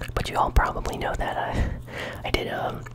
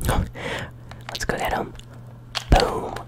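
ASMR whisper. Real, not acted. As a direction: whisper close to the mic. ASMR gaming whisper throughout.

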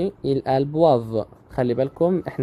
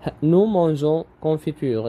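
slow exercise reading; 3 semitones higher, much slower than usual. Shown as a demonstration. Teacher reading an exercise sentence aloud to students, very slow. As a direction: read the exercise sentence very slowly and clearly. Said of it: "Complète avec un article partitif".

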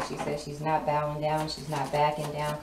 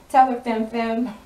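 excited; 6 semitones higher, 8 dB louder than usual. Real, not acted. Cheering the card on, laughing.

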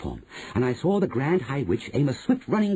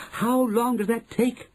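high, drawn-out question; eager witches; 11 semitones higher, slower than usual. Acted. Witches asking about boiling time, eager. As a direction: ask high, hanging on her word. Witches ask their leader.

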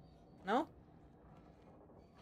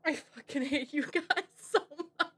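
laughing; 3 semitones higher, 5 dB quieter than usual. Real, not acted. Laughing at chat betrayal.

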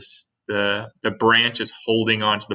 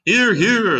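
high, loud shout of agreement; group cheer; 11 semitones higher, 6 dB louder than usual. A narrator's reading. Creatures all backing the ladybug, shouted cheer. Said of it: "they all shouted".

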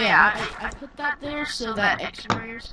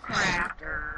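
put-on hillbilly accent; 3 semitones lower, 4 dB quieter than usual. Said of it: "I'm gonna do it in a hillbilly accent".

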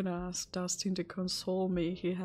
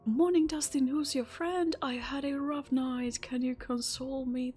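high, bright chirpy greeting; cheery greeting; 5 semitones higher than usual. Acted. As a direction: greet him sweetly. Reads dialogue option cheerily.

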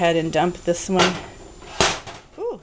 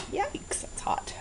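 startled yelp; 13 dB quieter, slower than usual. Real, not acted. Burned by a hot pot.

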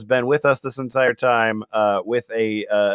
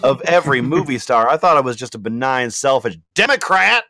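Latina mom voice. Acted. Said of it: "more Latina Mom coming in".

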